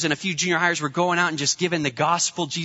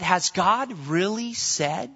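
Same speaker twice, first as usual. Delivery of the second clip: serpent's sly question; slower than usual. Retold or imitated. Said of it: "the serpent and challenging the truth".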